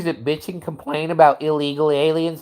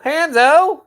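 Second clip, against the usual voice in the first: calling out; 12 semitones higher, 4 dB louder than usual. Real, not acted. Calling out for Hanzo.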